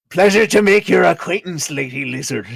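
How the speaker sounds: hammed-up gallant greeting with a bow; played-up courtesy. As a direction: make a big show of politeness. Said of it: "gives this big played up kind of".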